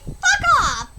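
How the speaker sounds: high, loud, amused retort; incredulous, laughing outburst; laughing dismissal. Real, not acted. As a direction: shout it off through laughter.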